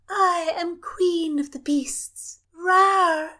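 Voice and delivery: high, slow, playful lion roar; a princess pretending to be a lion; playful growl. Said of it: "Cecilia growled merrily".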